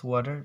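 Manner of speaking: final "water" as "wo-ah", t left out; Cockney "water", no t and no r; Cockney dropped T. Shown as a demonstration. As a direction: say the last "water" with a catch in place of t. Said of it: "in some Cockney".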